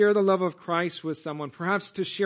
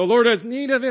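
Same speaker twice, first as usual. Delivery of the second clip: confident, bold and loud proclamation; 5 semitones higher, 8 dB louder than usual. Wondering aloud how the disciples answered when asked: said boldly. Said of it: "did they say it boldly?".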